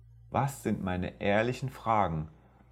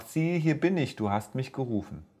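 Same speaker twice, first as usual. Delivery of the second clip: put-on higher, eager boy's voice; young Samuel; 4 semitones higher than usual. Samuel answering the call he hears, higher eager boy voice. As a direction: answer brightly like a willing boy.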